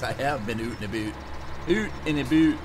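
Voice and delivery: mock Canadian oot-and-aboot vowels; Canadian accent. Farming streamer joking with chat in a put-on Canadian accent. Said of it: "I can sound a Canadian".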